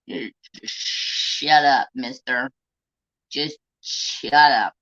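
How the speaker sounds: slow, drawn-out mock scold; deliberately slowed, half-joking shut up. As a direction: drag each word out like a tired scolding. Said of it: "I'm like".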